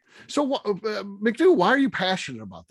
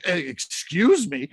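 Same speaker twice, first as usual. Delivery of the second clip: rude excuse me; 4 dB louder, much slower than usual. Retold or imitated. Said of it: "I'm not being like".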